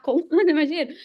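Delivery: half-laughing, typing it into Google; laughing mock search. Mocking her old self typing a search, laughing.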